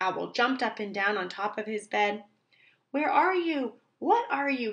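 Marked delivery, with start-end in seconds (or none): 2.9-4.7 high crying out in storybook style. Owl, jumping on his bed over the bumps, cries out at them; crying out. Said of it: "he cried with a crash and a bang".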